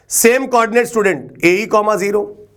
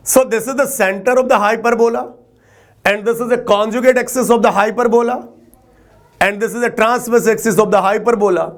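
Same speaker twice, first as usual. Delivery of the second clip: slow dictation; much slower than usual. Shown as a demonstration. Teacher dictates definitions.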